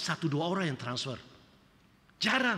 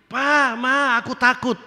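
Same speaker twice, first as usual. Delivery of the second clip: higher, louder mock frightened cry; scared child; 8 semitones higher, 10 dB louder, slower than usual. Child afraid in the dark calling parents, higher and louder. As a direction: play a little kid crying out for mum and dad.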